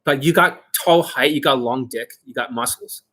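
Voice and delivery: ordinary delivery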